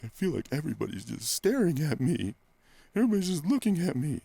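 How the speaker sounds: high, rising imitation of a self-conscious woman; imitating the client. Client on the leg curl telling her trainer, in a high imitated voice. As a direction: mimic her, pitched well up and quickening at the end. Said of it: "that was my impression".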